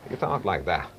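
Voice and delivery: lightly voiced lilting Irish presenter; Terry Wogan impression. Shown as a demonstration. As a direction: let it go up and down like Wogan. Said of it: "when you do Terry Wogan".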